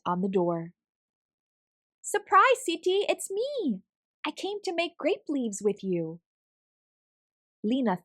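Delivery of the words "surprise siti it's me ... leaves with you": spring the surprise on grandma; girl bursting in, thrilled; excited surprise. A narrator's reading. Lena surprising grandma at door.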